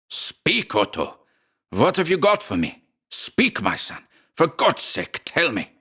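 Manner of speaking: put-on high-pitched, pleading old father; vibrating old man. A narrator's reading. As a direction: implore your son, pitch leaping up. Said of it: "the old man's vibrating accent".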